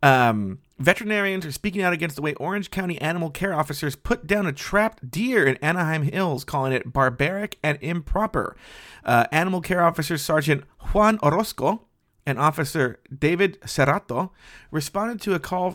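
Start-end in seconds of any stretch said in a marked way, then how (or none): 9.0-15.7 the names said in a put-on Spanish accent. Reading a news story aloud, saying the officers' names with put-on accent on names. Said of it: "Do you like how the way I did the accent there?".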